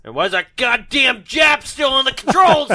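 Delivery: high, loud hammed-up bellow; mock outraged shout. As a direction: holler it as an indignant movie boss. Angry Tex acted out.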